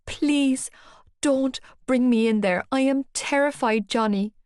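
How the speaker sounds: high, pleading whisper; begging. Acted. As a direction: beg him in fear. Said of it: "I begged".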